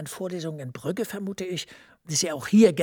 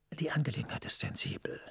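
secretive whisper, hardly voiced; 6 dB quieter than usual. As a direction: lean in and whisper the secret task. Heikle interne Ermittlung. (verschwörerisches Flüstern)

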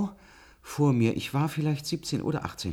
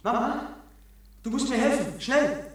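put-on childlike plea; 8 semitones higher than usual. Erwachsener spricht wie Kind.

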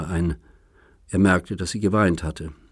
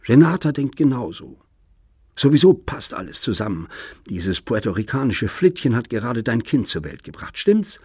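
higher, louder, mocking edge; bitter taunting; 4 semitones higher, 4 dB louder than usual. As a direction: needle him with every fact. Daughter taunts father about grandchild.

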